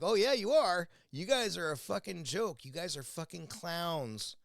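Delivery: retold angry retort. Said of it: "And I'm like".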